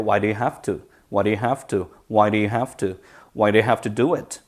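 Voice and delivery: "Why do you have to" repeated as one linked chunk; pronunciation drill. Shown as a demonstration. Teacher helping students memorise the pattern, drilled "Why do you have to". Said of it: "발음 익혀서 입에 딱 붙여놓으세요".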